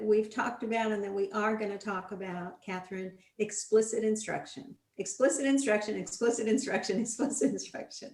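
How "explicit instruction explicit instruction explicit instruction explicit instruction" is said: mock-insistent chant; repeated for emphasis. Real, not acted. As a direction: drum the phrase home, ending in a laugh. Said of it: "How many times can we say that".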